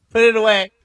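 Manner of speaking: laughing, loud mock order. Host laughing while telling herself to put it away. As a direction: giggle out the command.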